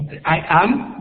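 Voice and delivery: I am, drawn out slowly; slow demo. Shown as a demonstration. Teacher to Spanish-speaking students, slowly modelling English. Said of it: "teacher demonstrating English phrase".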